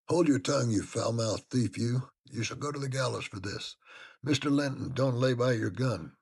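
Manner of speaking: loud, high, accusing servant voice. A narrator's reading. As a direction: bark out the accusation of a thief.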